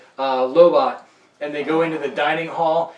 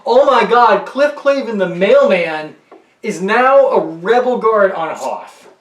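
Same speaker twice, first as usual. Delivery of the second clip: excited fan; 4 semitones higher, 5 dB louder than usual. Retold or imitated. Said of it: "you're like".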